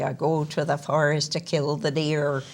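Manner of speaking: lightly put-on West Country accent; open-vowelled West Country accent demo. Shown as a demonstration. Actor showing how Elizabethan speech sounded, light West Country accent. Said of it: "it's like the West Country".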